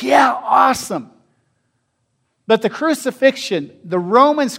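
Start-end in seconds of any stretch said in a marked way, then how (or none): 0.0-1.1 shouted, high mock cheer; breezy mock yell; mock enthusiasm. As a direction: play the casual believer's cheer. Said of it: "we're like".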